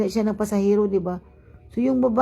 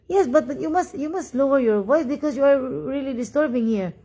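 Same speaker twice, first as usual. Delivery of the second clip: insistent rebuke; 3 semitones higher than usual. Retold or imitated. Retells arguing with loud passenger.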